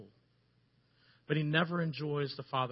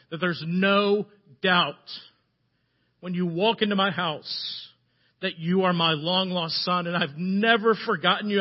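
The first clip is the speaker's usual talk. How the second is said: loud, emphatic fatherly proclamation; jubilant father; 4 semitones higher, 5 dB louder than usual. Acted. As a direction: declare a son's homecoming with mounting force. Father's joyful welcome home speech.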